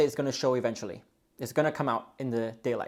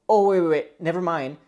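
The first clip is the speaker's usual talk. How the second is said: flustered; 3 semitones higher, 5 dB louder than usual. Acted. Panicking partner takes back a bluff, mildly flustered. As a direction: act out a sudden panicked retreat, lightly. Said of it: "They start to get all flustered".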